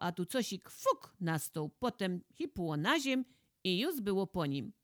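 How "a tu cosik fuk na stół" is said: ordinary delivery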